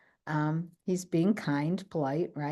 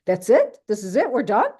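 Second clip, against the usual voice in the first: mock indignant questions, louder; imitating the husband's annoyed disbelief; husband upset leaving the office, mildly indignant; 5 semitones higher, 8 dB louder than usual. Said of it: "he's mad".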